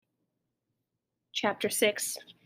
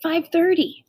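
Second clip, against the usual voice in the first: high-pitched shouted answer; calling back; 9 semitones higher than usual. A narrator's reading. Child answers mother at the window, calling back. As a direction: call the answer back across a distance. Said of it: "I called back".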